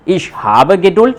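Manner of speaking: slow teacher dictation. Shown as a demonstration. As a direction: spell out Ich habe Geduld word by word, slowly.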